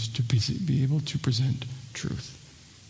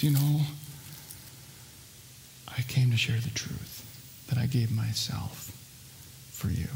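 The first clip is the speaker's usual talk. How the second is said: drops to a near whisper, very soft and lower; tender soft Jesus; 4 semitones lower, 9 dB quieter than usual. Acted. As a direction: offer it gently like a gift. Jesus quoted, tender, softly.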